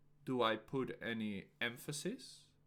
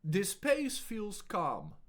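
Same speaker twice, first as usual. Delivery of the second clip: higher, louder and slow; slow projected take; slower and louder; 7 semitones higher, 6 dB louder, slower than usual. Shown as a demonstration. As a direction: say it slow with more voice. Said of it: "I will say each sentence in a few different ways".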